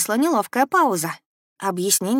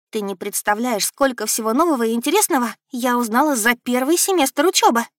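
горячо убеждая; 5 semitones higher than usual. Acted. Дочь горячо спорит с матерью.

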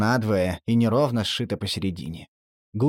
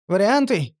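puzzled question; 8 semitones higher, 4 dB louder than usual. A narrator's reading. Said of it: "недоумённо спросил я".

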